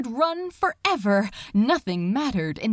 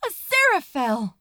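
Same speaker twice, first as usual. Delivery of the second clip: calling out; 2 semitones higher, 3 dB louder, faster than usual. Acted. Crowley calls back.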